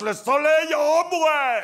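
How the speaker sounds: drawn out, soaring high and loud; dreamy sunshine rapture. Pretend. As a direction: float up into a blissful Provence reverie. Ecstatic Provence sunshine daydream.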